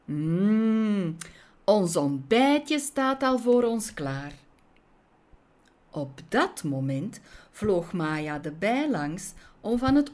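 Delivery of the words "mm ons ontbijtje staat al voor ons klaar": relishing, higher-voiced schemer; greedy anticipation, lightly put on; gloating wasp. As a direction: savour it with a long mmm. Wasp relishes stolen breakfast.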